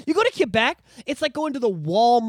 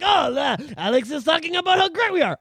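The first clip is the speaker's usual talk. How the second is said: higher-pitched, lightly mocking French-Canadian; lightly mocked Quebecer; 6 semitones higher than usual. Host imitating Quebecers hearing praise of the French, mildly mocking. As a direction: lightly send up a pleased Quebecer. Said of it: "from Quebec and you're like".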